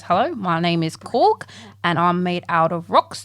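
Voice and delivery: lightly voiced New Zealand rock creature; Korg. Rock man introducing himself, light New Zealand accent. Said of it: "Korg from ... He's from New Zealand".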